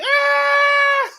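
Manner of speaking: put-on a drunk woman yelling in the street, loud wild yelp; drunk mock yell. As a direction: let out a drunken whoop.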